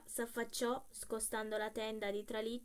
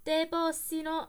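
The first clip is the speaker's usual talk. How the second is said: loud, slow, higher curse; cursing again; 6 semitones higher, 8 dB louder, slower than usual. A narrator's reading. Coachman cursing the latecomer, slow loud curse. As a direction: hurl the curse at him in fury. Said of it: "esclamò tra i denti".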